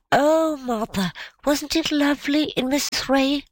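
put-on high-pitched child's exclamation; lightly acted, high child voice; delighted little girl. Delighted child exclaims to her mother.

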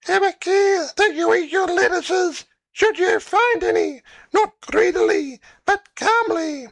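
very high squeaky guinea pig; tiny high guinea pig, calm at the end. A narrator's reading. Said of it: "And the old guinea pig said".

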